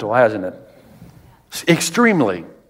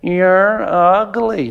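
parrot insult; much slower than usual. Retold or imitated. Parrot in the shop window taunting the passing woman, slow and drawn out. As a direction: stretch it out slowly like a rude parrot. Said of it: "parrot says".

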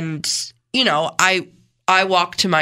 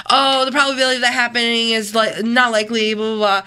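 dismissive; 4 semitones higher, faster than usual. Retold or imitated. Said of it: "they kind of discredit it".

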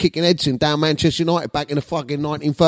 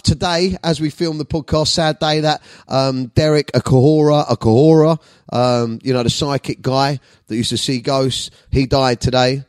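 normal talking voice

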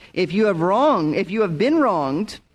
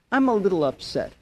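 minimizing tone. Retold or imitated. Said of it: "that's minimizing sin".

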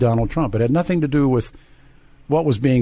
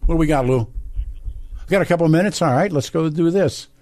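upbeat host wrap-up; 6 semitones higher than usual. Real, not acted. Host wrapping up radio show.

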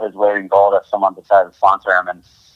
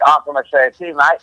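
higher-pitched, lightly imitated Australian accent; half-hearted go at an Aussie accent; attempted Aussie accent; 6 semitones higher, faster than usual. Surfer bluffing to Australians at the bar, attempted Aussie accent. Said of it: "definitely don't have an Aussie accent".

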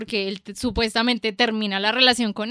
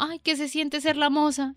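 mocking message; 4 semitones higher, 4 dB quieter than usual. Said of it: "me llega al Instagram un directo diciendo".

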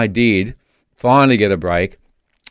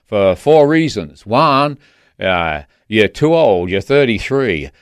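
put-on southern accent. Friend telling him he won't get a Washington job, southern accent. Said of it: "uh, a southern accent".

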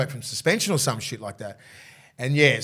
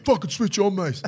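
pumped-up call; 6 semitones higher, 3 dB louder than usual. Retold or imitated. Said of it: "telling everyone".

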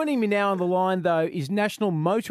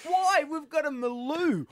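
tag-less mock incredulity; 7 semitones higher than usual. Acts out his past incredulous reaction.

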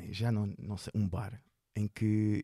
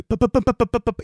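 loud, higher rapid pá pá pá like drumbeats; emphatic mock beats; 10 semitones higher, 12 dB louder than usual. Comedian miming the silent audience with loud beats. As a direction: hammer out each pá, much louder and higher.

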